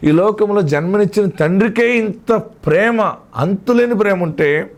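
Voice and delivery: high-pitched, stretched sermon delivery; preacher building fervently; impassioned preaching. Acted. Preacher exalts a father's love.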